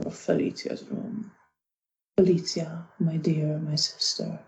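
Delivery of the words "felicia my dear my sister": a gentle appeal to a dear sister. Acted. Bruno to his sister through her closed door, gently. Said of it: "speaking gently".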